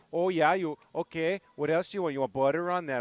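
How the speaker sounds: a mild imitation of a Green Bay local with a Minnesota accent. Imitating a Green Bay shop clerk for his cohost, light Minnesota accent. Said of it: "Strong Minnesota".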